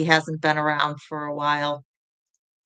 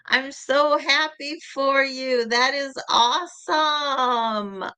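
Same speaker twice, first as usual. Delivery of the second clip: high, slow, delighted praise; excited congratulations; 8 semitones higher, much slower than usual. Real, not acted. Congratulating DeAudrey on her new job, high and gushing. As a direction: gush with joy for her friend.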